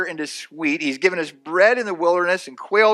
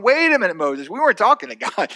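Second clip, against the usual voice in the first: high-pitched mock protest; indignant objection; 5 semitones higher, 3 dB louder than usual. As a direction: object in a raised, put-upon voice. Acts out complainer objecting to Moses.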